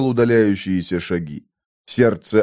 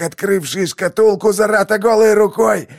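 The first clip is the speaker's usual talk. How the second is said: gloating dying man; 10 semitones higher than usual. A narrator's reading.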